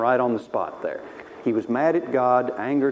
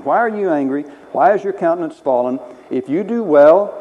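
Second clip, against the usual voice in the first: stern questioning; 3 semitones higher, 7 dB louder than usual. Retold or imitated. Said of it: "He's trying to teach him".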